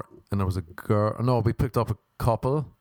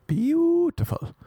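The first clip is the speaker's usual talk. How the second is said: drawn-out gushing; much slower than usual. Real, not acted. Repeating it, drawn out.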